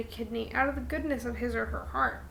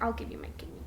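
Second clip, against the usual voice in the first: offering kidney; 10 dB quieter, much faster than usual. Retold or imitated. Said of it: "I'm like".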